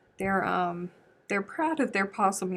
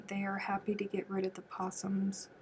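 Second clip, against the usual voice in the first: whisper; 7 dB quieter than usual. Real, not acted. Whispered aside about possums.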